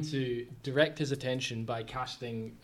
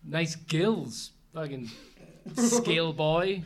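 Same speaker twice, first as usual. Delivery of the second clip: trash talk; 3 semitones higher, 3 dB louder, slower than usual. Acted. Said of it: "then I trash talk the fish".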